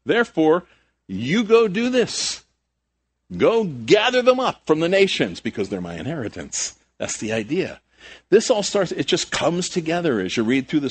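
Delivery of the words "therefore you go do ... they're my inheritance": higher, emphatic preached command; acted command. Jesus sending followers to the nations, a commanding charge. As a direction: give it as a commission, stretching the key words. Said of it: "it's a command".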